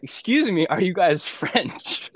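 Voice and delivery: high, slow and overly polite; timid polite ask. Retold or imitated. Approaching strangers at 3 AM.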